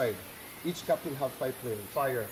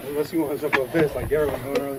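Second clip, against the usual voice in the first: calling out; 8 dB louder than usual. Real, not acted. Calling down from the top.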